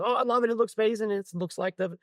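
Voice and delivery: high, delighted quote; delighted gushing. Retold or imitated. Customer receiving her rebuilt brace, delighted gushing.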